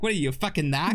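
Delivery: imitating a Boston tough guy; lightly done Boston accent. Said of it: "a mixture between Mark Wahlberg from Ted".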